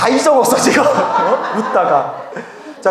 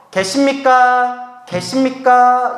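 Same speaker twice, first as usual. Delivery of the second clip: drawn-out, higher call for attendance; 4 semitones higher, much slower than usual. Acted. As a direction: stretch it out as if calling into an empty office. Calling outside temple office. (길게 빼며 사람 부르는 소리)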